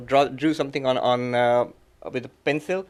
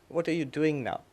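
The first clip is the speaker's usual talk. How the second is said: gentle question; 7 dB quieter than usual. Retold or imitated. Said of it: "he very gently said".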